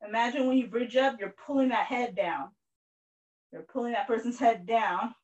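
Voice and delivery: coaching cue. Real, not acted. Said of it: "coaching cue mid-exercise".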